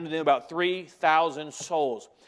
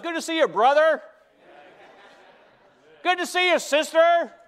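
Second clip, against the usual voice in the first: high-pitched, hearty acted greeting; friendly greeting; 9 semitones higher, 3 dB louder than usual. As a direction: call out a welcome to churchgoers, pitched high. Models greeting fellow church members.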